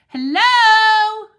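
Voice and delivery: loud, high excited bark of a greeting; barked hello. Acted. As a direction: call out like an eager dog. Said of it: "I bark".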